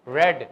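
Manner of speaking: "ریڈ" with a short e, like red; third-form pronunciation. Shown as a demonstration. Teacher demonstrating third form to students, "ریڈ" as "red". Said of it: "second اور third کی pronunciation equal ہے".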